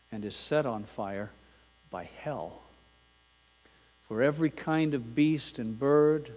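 a preacher reading the Bible passage to the congregation; scripture reading. Acted. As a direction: read it as holy text, weighty and deliberate. Pastor reads James 3 aloud.

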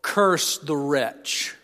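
very slow, slightly put-on contempt; drawn-out Voltaire curse, lightly voiced; quoting Voltaire. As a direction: spit out the curse slowly, half-acted.

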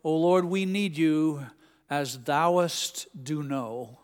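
slow, overly solemn prayer with stretched "thouest"; lightly voiced earnest man straining to pray beautifully; a hint of a churchgoer imitating King James prayer; mock flowery prayer. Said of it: "he kept telling the Lord".

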